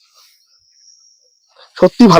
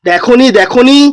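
to someone hard of hearing; 5 semitones higher, slower than usual. Real, not acted. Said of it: "এই দিদা একটু কানে একটু কম শোনে".

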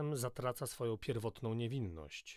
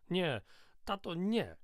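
a child wailing in mock tears; tearful wail; 7 semitones higher, slower than usual. A narrator's reading. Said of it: "zawyła płaczliwym głosem". (płaczliwe, głośne zawodzenie)

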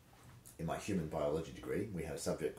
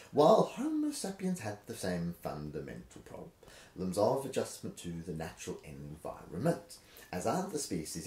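rhythmic reading. Shown as a demonstration. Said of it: "I'm just losing the rhythm".

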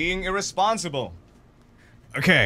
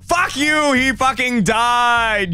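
gloating cheer; 8 semitones higher, much slower than usual. Real, not acted. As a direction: crow over him. Gloating over friend's death.

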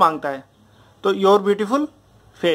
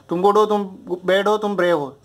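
"तुम गुड हो, तुम बैड हो" held up, "तुम ब्रेव हो" dropping to close; rhythm drill. Shown as a demonstration. Teacher showing students how to test brave, rhythm drill. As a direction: recite in a rhythmic three-part pattern. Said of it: "एक rhythm पकड़ो".

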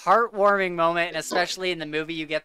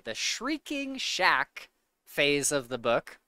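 slow, careful enunciation of a tricky phrase; slower than usual. Real, not acted. Finally saying the tricky title carefully and slowly. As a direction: spell out The Shrieking Shack phrase slowly. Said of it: "that's such a hard phrase to say".

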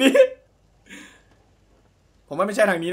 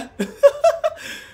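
sudden high burst of laughter; 4 dB louder than usual. Real, not acted. Streamer laughing along with the game's joke, a high burst of laughter. Laughing at rob-the-rich line.

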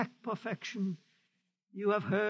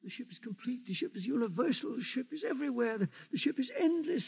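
frightened muttering; 2 semitones higher, faster than usual. Acted. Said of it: "Your mutterings are those of a frightened old man".

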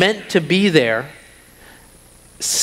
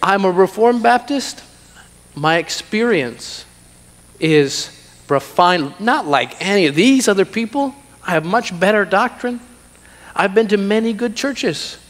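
mock superiority, higher voice; proud refined believer; 4 semitones higher than usual. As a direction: boast of your better doctrine. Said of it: "You see how you can have this kind".

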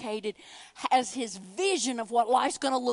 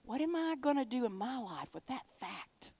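softer, subdued and deliberate; hushed, personal restatement; reflective question; 6 dB quieter than usual. Acted. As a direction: ask it quietly of yourself. Same question repeated softly, personally.

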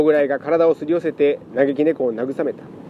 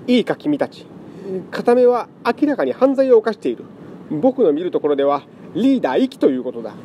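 pompous scholar; 5 semitones higher than usual. Acted. Pompous scholar cat lectures.

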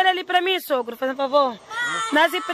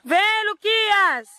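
calling out; 3 semitones higher, much slower than usual. Real, not acted. Mother calling her son back as he runs after dad, slow and raised.

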